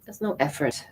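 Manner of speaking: calm, unhurried meditation voice with long pauses; guided meditation. Real, not acted. Mindfulness teacher guiding listeners to follow their breath, calm meditation. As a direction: gently guide them inward, leaving room to breathe.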